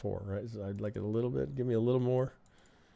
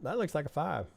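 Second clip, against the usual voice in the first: put-on higher-pitched kid with a southern accent; 7 semitones higher than usual. Trader voices a fifth grader reading the chart, southern accent. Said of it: "why he's got a southern accent".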